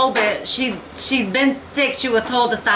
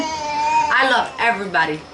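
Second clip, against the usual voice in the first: holding back tears. Real, not acted. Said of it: "I'm trying not to cry".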